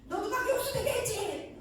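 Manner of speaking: sudden high, loud voice of God; booming divine voice. Retold or imitated. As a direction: thunder it out as the Spirit confronting. Holy Spirit voiced in testimony.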